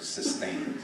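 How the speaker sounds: "sustained" set apart after a pause, breathy and soft; "sustained" as the key word, drawn out; emphasized word. Shown as a demonstration. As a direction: lean on "sustained", hushed and deliberate. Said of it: "I emphasize that word".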